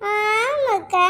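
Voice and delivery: very slow, stretched-out yes; long lingering assent; drawn-out agreement. Acted. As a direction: drag out the agreement to egg on gossip. Agreeing along with neighbour's gossip.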